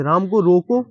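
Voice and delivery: "राम को रोको" as one phrase, stopping firmly after "रोको"; pause after रोको. Shown as a demonstration. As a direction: stop right after "रोको", before any "मत". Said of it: "यहाँ पे लगा सकता हूँ". ("रोको" पर रुककर विराम)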